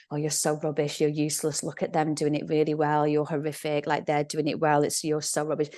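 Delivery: critical inner voice. Retold or imitated. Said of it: "the same little voice on your mat".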